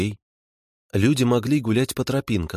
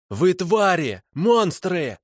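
high-pitched denunciation; accusing wail; 10 semitones higher, much slower than usual. A narrator's reading. Prisoner denounces his captors as monsters, accusing wail. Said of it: "обличающе завопил он".

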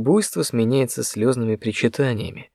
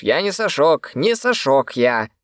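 shout; 4 semitones higher, slower than usual. A narrator's reading. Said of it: "буквально выкрикнул в лицо".

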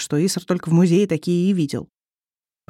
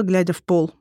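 ordinary delivery

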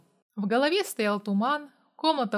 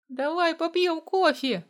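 pleading; 7 semitones higher than usual. A narrator's reading. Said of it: "взмолился он".

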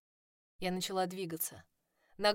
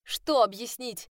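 angry retort; 4 semitones higher, 8 dB louder, slower than usual. A narrator's reading. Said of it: "Кипя от злости".

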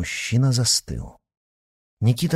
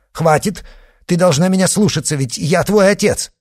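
loud, high and fast command; stern shout; 10 semitones higher, 7 dB louder than usual. A narrator's reading. Father shouts down his daughter, ordering her to obey. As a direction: cut her off and lay down the law.

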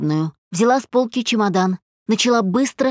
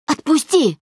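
pleading cry; 7 semitones higher than usual. A narrator's reading. Wife struggles free.

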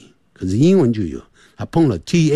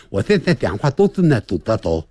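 lisping with tongue out; tongue sticking out; 5 semitones lower, faster than usual. Shown as a demonstration. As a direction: speak with the tongue between teeth. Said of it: "你看我讲".

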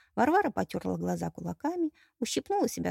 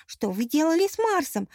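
alarmed bride; 8 semitones higher, 5 dB louder than usual. Acted. Bride fears for her groom.

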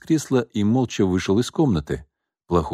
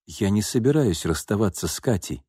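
stubborn; 4 dB quieter than usual. Acted. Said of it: "упрямо заявил Руслан".

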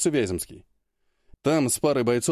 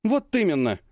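heated; 7 semitones higher than usual. A narrator's reading. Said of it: "С жаром рубанула воздух рукой".

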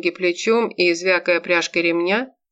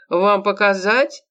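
wailing outrage; 3 semitones higher, 3 dB louder, slower than usual. Acted. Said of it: "возопил оскорблённый".

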